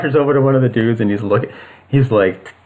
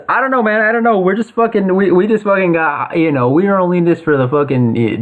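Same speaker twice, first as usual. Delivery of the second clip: panicked thug; 5 semitones higher than usual. Acted. Frightened thug being bitten.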